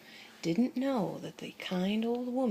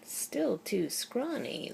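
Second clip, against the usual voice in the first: slow, higher witch voice; 4 semitones higher, much slower than usual. Acted. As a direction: drag it out like an old witch. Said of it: "You talk like a witch".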